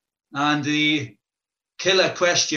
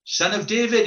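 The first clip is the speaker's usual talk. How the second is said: raised, higher, pleading call; desperate shout; 6 semitones higher than usual. Acted. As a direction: cry out for mercy across the crowd. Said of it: "he shouts".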